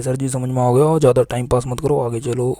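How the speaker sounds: mock-impatient pupil nagging to move on; student loudly urging sir to skip ahead. Teacher voices impatient student.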